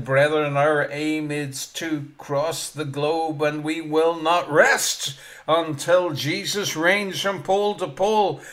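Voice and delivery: lightly voiced old preacher, slow and loud; rally the brethren like the old preacher; old Welsh preacher. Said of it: "an old Welsh preacher".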